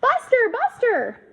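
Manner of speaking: high, loud frantic calls for the dog; yelling. A narrator's reading. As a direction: yell after the runaway dog.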